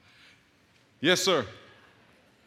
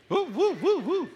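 excited whooping. Real, not acted. Hyping up the crowd.

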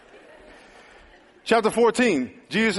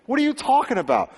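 stern Jesus; 7 semitones higher than usual. Retold or imitated. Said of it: "In other words".

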